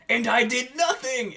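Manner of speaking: high, loud mock outburst; indignant shout. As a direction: peak of the accusation, almost yelling. Climax of angry accusation.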